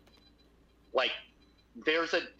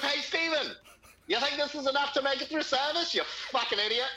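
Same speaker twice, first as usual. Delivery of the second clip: imitating a chef's sarcastic yell, pitched much higher; retold boss sneering at the cook, high mock yell; mock furious chef; 14 semitones higher than usual. Chef mocks him with huge containers.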